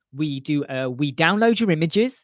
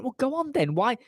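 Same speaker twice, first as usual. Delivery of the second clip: dismissive; 8 semitones higher than usual. Retold or imitated. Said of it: "I went".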